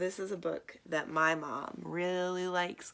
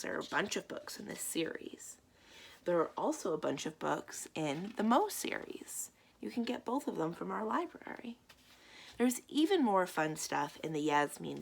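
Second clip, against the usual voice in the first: whisper. Real, not acted. Librarian whispering to kids about more books. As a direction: lean in and whisper the tip.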